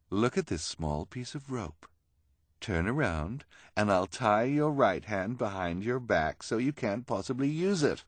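lightly voiced theatrical villainess; coaxing schemer. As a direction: coax with a flourish. Esme coaxes Kevin.

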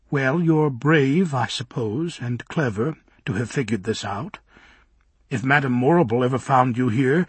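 put-on airy girl toying with a suitor; lightly voiced Galinda. Galinda teasing Bock about his looks, lightly voiced.

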